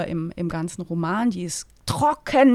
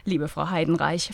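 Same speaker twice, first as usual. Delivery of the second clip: fluted, sonorous; 3 semitones lower, 3 dB louder than usual. Acted. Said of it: "flötete ... mit erstaunlich sonorer Stimme".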